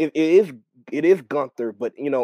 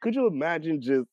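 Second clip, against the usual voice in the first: Aries Spears' Arnold impression; 4 semitones higher than usual. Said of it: "the accent... Aries Spears".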